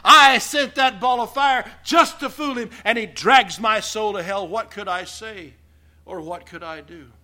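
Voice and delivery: loud, mocking devil's voice; gloating devil. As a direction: shout it like the devil triumphing. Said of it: "the devil himself would go".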